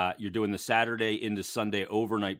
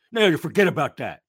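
mock dismissive boss; 8 semitones higher, 9 dB louder than usual. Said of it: "he'd be like".

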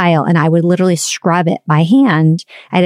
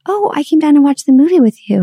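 cheerful arrival; 8 semitones higher than usual. Retold or imitated.

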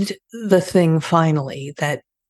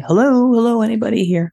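calling out loud and higher into an empty room; 7 semitones higher, 4 dB louder, faster than usual. Retold or imitated. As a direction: call out to see if anyone is there. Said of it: "I was calling".

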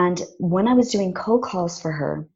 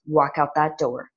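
threatening voice; 2 semitones lower than usual. Retold or imitated. Mysterious voice warns her from the door, mildly threatening. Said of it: "it was threatening me".

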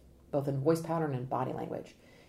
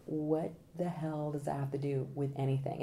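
imitating irked jurors; 3 semitones lower, 6 dB quieter than usual. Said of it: "the jurors are like".

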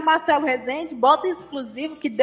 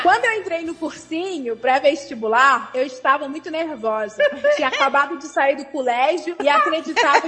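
put-on Carioca accent. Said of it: "a falante captou o ditongo carioca".

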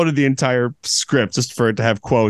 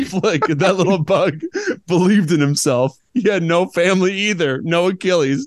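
a hint of French croissant mentor; 4 semitones higher than usual. Croissant character voice.

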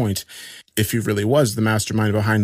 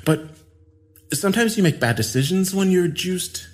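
Adrian voice; 9 semitones higher than usual. A narrator's reading.

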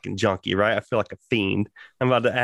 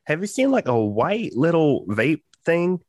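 imitated careful asking; 7 semitones higher than usual. Worker asking an older coworker about his vape, imitated careful asking. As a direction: ask it sweetly, pitched up. Gently asks older woman.

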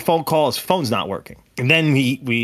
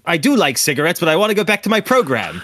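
higher, playful mock protest; impatient viewer; 5 semitones higher, 3 dB louder than usual. Viewer stuck in a cigarette commercial, mock impatience. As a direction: plead to get back to the show, hammed-up.

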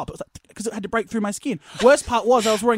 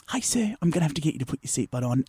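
flight attendant; 6 semitones lower, 5 dB quieter than usual. Retold or imitated. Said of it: "The flight attendant walks up".

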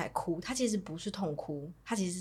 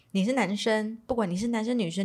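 louder, a bit higher and quick; pointedly loud; 4 semitones higher, 5 dB louder than usual. Retold or imitated. Mom talking to her son so grandpa overhears, pointedly loud. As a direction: say it so the father-in-law in the next room hears. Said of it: "大声到我可以确保我公公有听到".

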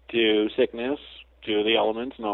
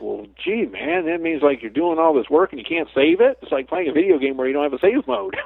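mock dismay; 5 semitones higher, 3 dB louder than usual. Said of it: "And I was scared".

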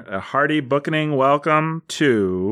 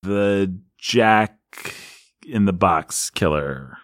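low, slow, ominous announcer; dramatic announcer; 4 semitones lower, much slower than usual. Acted. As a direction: drawl it out like a fight promoter. Dramatic announcement of team name.

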